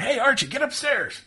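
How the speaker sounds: high, loud call to Archie; acted shout across the house. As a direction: holler for a buddy to come up. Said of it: "like he said, he's like".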